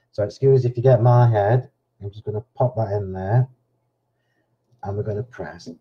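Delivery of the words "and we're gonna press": softer, holding breath. Real, not acted. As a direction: speak while holding breath. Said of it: "I'm holding my breath while I'm stamping".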